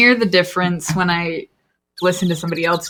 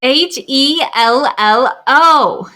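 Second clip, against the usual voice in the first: pointedly slow, letter by letter, higher; spelled-out hello; 6 semitones higher, 3 dB louder, much slower than usual. Acted. Game character spells out a greeting to ignored listener, pointedly spelled out. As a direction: spell it out slowly with rising impatience. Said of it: "Did she spell it out".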